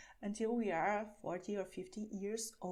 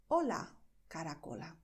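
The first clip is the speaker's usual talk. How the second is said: cutesy greeting; 4 semitones lower than usual. Shown as a demonstration. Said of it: "a little cutesy".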